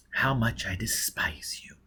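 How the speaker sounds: soft, slow, icy; cold contempt. A narrator's reading. Gisbella telling Foyle she despises him, icy. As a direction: let the contempt drip out quietly.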